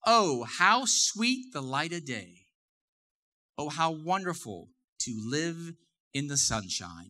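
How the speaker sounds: slow, savoring each phrase of the verse; slow scripture reading. Shown as a demonstration. Pastor reading Ecclesiastes to church, slowly savoring. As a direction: read it out slowly like sacred text. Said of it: "It reads like this".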